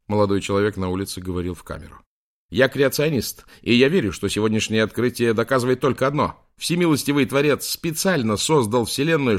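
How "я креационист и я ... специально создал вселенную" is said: громко. Acted. Креационист горячо говорит в камеру.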